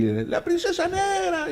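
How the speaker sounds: high, slow excited call; imitating the crowd. Madrid crowd calling out his motorbike's name, high slow excited. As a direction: call out the name like a fan in the street.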